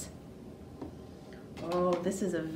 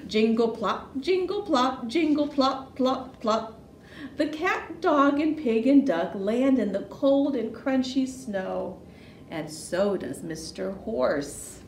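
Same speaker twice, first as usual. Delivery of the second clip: put-on lively storytelling for small children with swooping pitch; animated children's story narration; picture book read-aloud; 3 semitones higher, 4 dB louder than usual. A narrator's reading. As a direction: read it playfully, punching the sound words.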